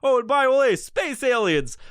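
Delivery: high, put-on oddball voice; hammed-up high voice, slowing on space aliens; weirdo rant voice. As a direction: play the guy rambling at strangers. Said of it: "go out to fucking Starbucks and go".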